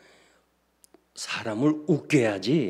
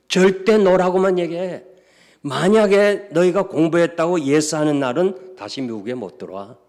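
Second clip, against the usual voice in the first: raised, pressing warning voice; stern warning; 5 semitones higher, 7 dB louder than usual. Retold or imitated. Lawyer warning the daughters, raised and stern. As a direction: drive the warning home hard.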